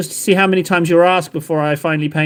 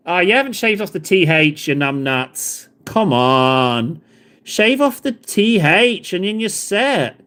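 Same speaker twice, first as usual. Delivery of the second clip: put-on Irish accent; slower than usual. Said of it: "He was meant to be Irish".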